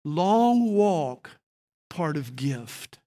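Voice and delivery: slow halting broken English, dropping the small words; lightly imitated broken English, drawn out. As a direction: speak it like a newcomer still learning English. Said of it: "in his broken English".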